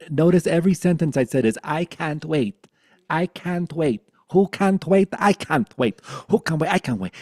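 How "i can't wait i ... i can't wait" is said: higher, louder whiny insistence; mock impatient ego. Teacher parodying the ego's impatience, whiny mock chant. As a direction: needle it like a petulant child.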